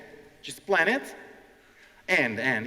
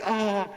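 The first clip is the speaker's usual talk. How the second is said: nervous "ah", pitched up; gemido nervoso; 7 semitones higher, 3 dB louder than usual. Retold or imitated. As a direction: imitate a nervous student's gasped "ah". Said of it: "one lady was so nervous".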